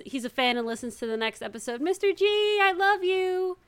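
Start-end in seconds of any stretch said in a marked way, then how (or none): 1.8-3.6 sincere shout-out. Real, not acted. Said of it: "I should say hi".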